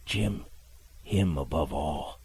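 weak, whispered sea-dog warning; hushed warning. Acted. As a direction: warn the boy under his breath.

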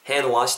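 "hand wash" with an audible d, "hen-deu-wash"; fully sounded d. Shown as a demonstration. Teacher shows what is unnecessary, "hand wash" with the d pronounced. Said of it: "굳이 발음 안 하셔도 됩니다".

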